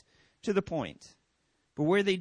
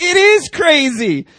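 slow mock agreement; 10 semitones higher, 13 dB louder, slower than usual. Pastor playing along.

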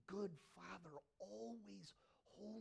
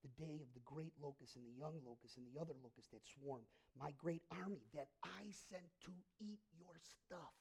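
scripture reading; 5 semitones lower, 8 dB quieter than usual. Acted. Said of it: "He goes".

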